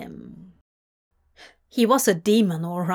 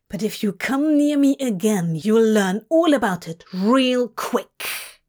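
threat; 4 dB louder than usual. Acted. Crowley threatening Zira.

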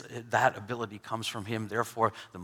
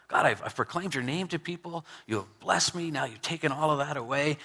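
a lightly voiced Job, pitched higher, pleading; a touch of pleading, higher; 4 semitones higher than usual. Preacher voicing Job's cry to God, lightly pleading, higher.

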